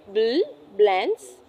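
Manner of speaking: Bl as a slow separate b then l; blend demo. Shown as a demonstration. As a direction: sound out Bl with both consonants heard. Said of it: "each makes its own sound".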